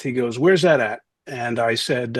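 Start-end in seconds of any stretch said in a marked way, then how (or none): 0.4-1.0 lightly mimicked Philly question; puzzled Philly tough kid, lightly done; Philly accent. Friend asking where Dartmouth is, light Philly accent. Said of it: "he had the Philly accent".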